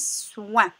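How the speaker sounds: "soin" slowly, long s gliding into oin; syllable demonstration. Shown as a demonstration. Teacher blending S with oin for pupils, "soin" drawn out. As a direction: stretch the s into "soin". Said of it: "ça se prononce".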